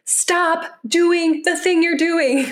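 high, slow mock exasperated parent; mock angry parent at frozen child; mock lost temper. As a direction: play a parent who snapped, half-joking. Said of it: "you've lost it with a kid".

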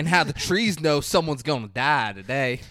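mock Southern narrator; Southern accent. Podcaster quoting the narrator's line about trees, mock Southern accent. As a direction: put on a hammed-up Southern twang. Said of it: "That's an insane Southern accent".

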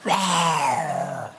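playful imitated lion roar; lion roar imitation. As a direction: growl like the lion video for the toddler. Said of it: "I put that on and he just watches".

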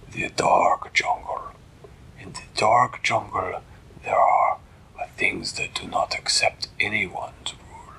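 slow, husky put-on voice; stately, deliberate cat king; ominous cat ruler. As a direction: draw out each phrase as a grave warning. Voices Flibbertigibbet warning of the jungle.

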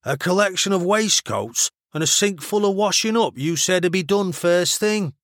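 high-pitched grumbling Mancunian; Mancunian accent. A narrator's reading. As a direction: complain in a broad Manchester accent. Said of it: "the over-enunciated vowels she was already learning".

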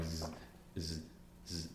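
imitated buzzing hum; buzzing noise. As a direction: hum out a buzz, zzz. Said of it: "It was buzzing".

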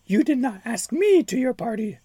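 high, menacing witch voice; shrill-free high cackling-witch menace; wicked fairy. Acted. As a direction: sneer it like a spiteful fairy. Wicked fairy speaks in story.

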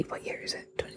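breathy whisper to herself, hushed and quick; whispered aside. Real, not acted. Podcaster whispering to herself mid-sentence, whispered aside. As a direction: mutter it under your breath while counting years.

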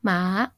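"Ma" dipping, Mandarin third tone; falling-then-rising tone. Shown as a demonstration. Podcaster demonstrating horse in Mandarin, "Ma" dipping then rising. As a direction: draw "Ma" down, then back up. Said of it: "which is falling then rising tone".

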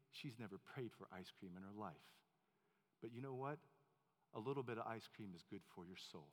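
put-on hushed confiding old man; conspiratorial hush. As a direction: lean in and share a secret.

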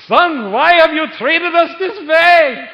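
loud, high, drawn-out Jewish mother's scolding; hammed-up Jewish accent, very high and loud. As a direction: wail it slowly as an exasperated mother with a Jewish accent. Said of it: "in her best Jewish accent".

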